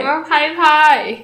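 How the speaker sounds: put-on slow toddler-style 拍拍; slow cutesy baby talk. Mimicking a toddler for her friend, slow baby talk. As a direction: drawl it like a little child. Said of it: "拍拍拍拍啊".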